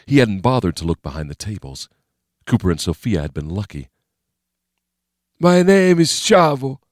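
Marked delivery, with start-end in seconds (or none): 5.4-6.8 high, slow, blocked-nose voice; stuffed-up nose. A narrator's reading. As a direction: talk through a clogged nose. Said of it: "choked by snot clogging his sinuses".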